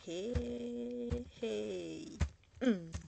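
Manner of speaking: drawn-out "hey" with a loud hum; expressive Creole interjection. Acted. Writer voicing how her people speak, emphatic interjection. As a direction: stretch the exclamation, then hum emphatically. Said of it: "That's how we speak, by the way".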